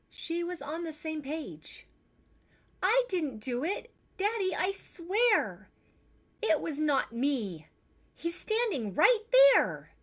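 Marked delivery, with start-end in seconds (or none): 2.8-9.9 put-on high, loud child's voice swearing innocence; a scared kid begging Daddy to believe her; pleading little girl. Tess pleads with Daddy over the broken glass, high and insistent.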